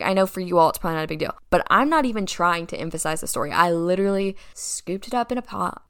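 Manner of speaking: normal talking voice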